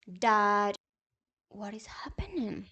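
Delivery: hushed scared whisper. Retold or imitated. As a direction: breathe the question out unvoiced.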